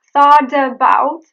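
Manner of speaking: "thought about" as thaw-duh-bout, heavy D; full D. Shown as a demonstration. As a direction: put a hard D in "thought about". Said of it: "It's not thought about".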